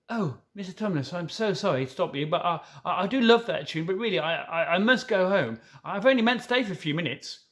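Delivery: a hint of a girl's voice, apologetic and hesitant; lightly voiced Lucy. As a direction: stammer your excuses politely.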